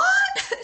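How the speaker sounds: shrieking burst of laughter; high laugh. Real, not acted. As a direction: squeal of laughter. Laughs at teacher's reaction.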